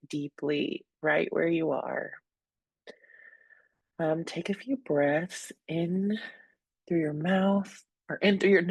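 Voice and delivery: calm, unhurried meditation guidance with long pauses; guided breathing. Real, not acted. Host inviting listeners to breathe deeply where they are, calm guidance. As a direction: ease listeners gently into their breath.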